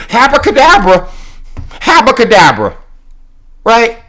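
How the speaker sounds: chanting abracadabra like a magician; playful mock incantation; mock magic spell. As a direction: cast it like a spell, teasingly. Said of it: "black girl magic".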